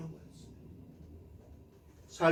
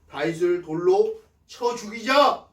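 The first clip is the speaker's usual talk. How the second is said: raised-voice echo of a mob's cry; half-strength imitation of men shouting; re-enacted crowd call, higher than talk; retold shout; 4 semitones higher, 10 dB louder, slower than usual. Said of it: "소리치고 있다라고".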